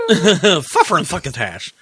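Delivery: slow, drawn-out sultry voice; sultry narrator. Pretend. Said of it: "That's sultry voice".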